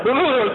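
high blubbering lip noise; comic trembling-lip gibber; imitated gibber. Groom losing control at his wedding, mock gibbering.

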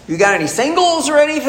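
high, quick, squeaky little request; hopeful mock-timid ask. New patient asks staff for a single room, mock-timid. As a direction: shoot the pitch up as if asking a small favour.

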